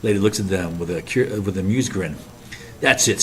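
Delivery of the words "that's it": snapping. Acted. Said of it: "snaps Mike with vehement eyes".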